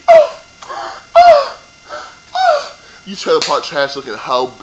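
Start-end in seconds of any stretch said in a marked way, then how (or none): 0.1-2.8 very high, squeaky mocking oh; mock shocked gasps. Mocking her shocked reaction, squeaky high oh. Mimics shocked cast member.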